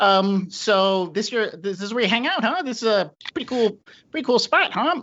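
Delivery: anxious, rambling talk. Voicing a nervous character who keeps chattering: nervous chattering. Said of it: "he keeps talking and chattering".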